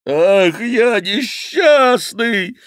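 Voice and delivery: high, slow, loud lament; drawn-out howl of misery; wailing. Acted. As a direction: wail it like a ruined fat monk. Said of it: "вопил Гранфло".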